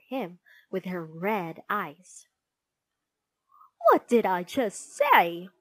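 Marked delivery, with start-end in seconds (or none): 3.9-5.5 stern teacher. A narrator's reading. Teacher confronts daydreaming pupil.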